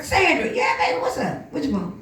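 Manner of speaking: cheery greeting. Retold or imitated. Cheerful work greeting voiced.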